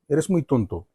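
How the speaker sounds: soft, affectionate teasing; a loving little scold; said with love. Shown as a demonstration. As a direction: call him a fool tenderly. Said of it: "ये प्यार से मैं कह रहा हूँ".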